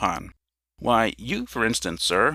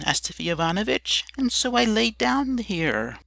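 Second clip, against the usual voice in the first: put-on higher, meek drunkard voice; a lightly higher, apologetic drunkard; sheepish Emelyan; 9 semitones higher than usual. A narrator's reading. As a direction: make a sheepish excuse, slowing at the end. Emelyan explains himself sheepishly.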